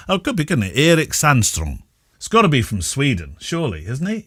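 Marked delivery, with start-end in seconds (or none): 0.8-1.8 "Erik Sandstrom" with a long first vowel, pitched up; tentative pronunciation of Erik. Shown as a demonstration. Host settling on a listener's name, trying "Erik Sandstrom". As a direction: try "Erik Sandstrom" as spelt with two E's. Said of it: "how do you say Eric when".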